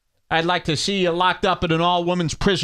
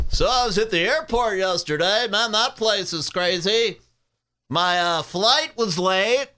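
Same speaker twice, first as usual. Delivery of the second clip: mock comic; 2 semitones higher than usual. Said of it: "Joe List".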